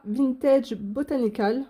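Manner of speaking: slow English title in a French accent; French speaker trying an English accent; attempted English accent. Shown as a demonstration. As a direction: have a go at English pronunciation, slowly. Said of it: "Super accent anglais".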